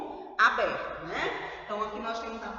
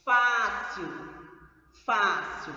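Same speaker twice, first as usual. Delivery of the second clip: "Fácil" louder, punched on open "fá"; open stressed vowel; 5 dB louder, slower than usual. Shown as a demonstration. Teacher showing the tonic syllable, loud open "fá" in "Fácil". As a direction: hit the first syllable of "Fácil", falling after. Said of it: "som aberto".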